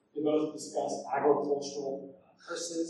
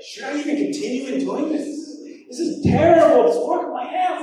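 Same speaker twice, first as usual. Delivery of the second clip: self-doubt; 11 semitones higher, 10 dB louder than usual. Retold or imitated. Acted self-doubt outburst.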